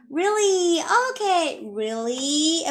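questioning. Shown as a demonstration. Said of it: "这个语气是一个反问的语气".

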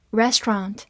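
American two-syllable "restaurant" with open ah; American accent. Shown as a demonstration. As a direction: say "restaurant" the American way, REST-rahnt. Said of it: "美式发音".

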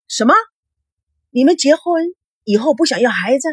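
shocked. A narrator's reading. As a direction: blurt it out in total shock. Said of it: "大吃一惊".

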